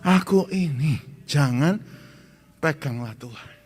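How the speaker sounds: said together loudly on the count; loud congregation recital. Shown as a demonstration. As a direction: call it out loud with everyone. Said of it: "Satu, dua, tiga". (ucapkan bersama dengan lantang)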